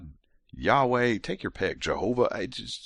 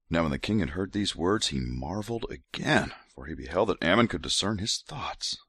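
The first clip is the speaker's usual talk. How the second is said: hint of a seductive read; mock sexy voice. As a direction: breathe the scripture like a come-on, lightly. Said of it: "gonna keep going with sexy voice".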